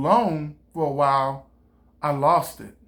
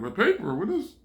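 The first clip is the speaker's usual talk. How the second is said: amazed villagers; 5 semitones higher than usual. Retold or imitated. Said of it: "The people were like".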